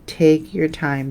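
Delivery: slow, deliberate "Take your time". Shown as a demonstration. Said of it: "That's another thing".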